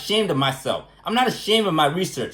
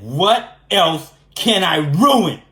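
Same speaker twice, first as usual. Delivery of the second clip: mock villain; 4 dB louder, much slower than usual. Villain punchline repeated.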